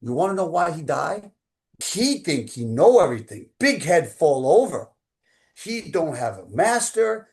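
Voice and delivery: put-on loud, emphatic Korean-accented mentor; imitated Korean accent. Grandmaster tells his student why the teacher died, imitated Korean accent. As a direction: imitate a Korean grandmaster laying down a blunt verdict. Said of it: "looks at me in that Korean accent".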